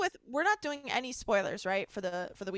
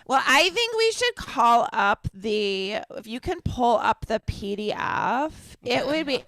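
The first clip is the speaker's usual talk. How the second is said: slow coworker voice; slower than usual. Retold or imitated. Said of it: "she's always like / talks that way".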